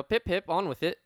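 put-on a lightly done jokey British toff accent; mock British accent. Host brushes past the teasing in a mock British accent. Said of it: "it's the Middle Earth accent".

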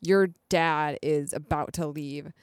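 slow, deliberate retold correction; slow, measured contradiction; slow firm correction. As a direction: spell it out slowly, imitating someone insistent. Acting out Chuck correcting Nate.

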